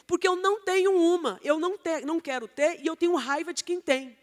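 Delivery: mildly acted defensive refusal; mock resentful protest, easing off toward the end; closed-hearted resentment. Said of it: "vai fechar o coração".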